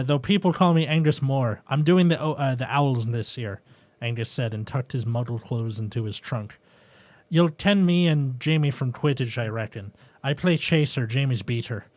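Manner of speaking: lightly voiced Scottish lad; put-on character accent. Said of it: "I'm just doing the same accent for everybody".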